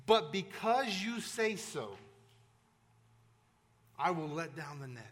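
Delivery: understated reluctant fisherman; reluctant giving in. Retold or imitated. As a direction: give in against your better judgment. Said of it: "and he says this".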